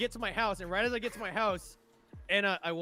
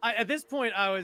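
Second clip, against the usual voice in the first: ordinary talk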